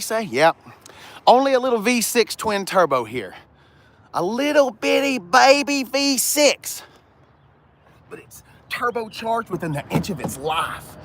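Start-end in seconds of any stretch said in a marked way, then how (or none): 4.1-6.8 put-on higher, slow baby-talk coo. Cooing over the small engine.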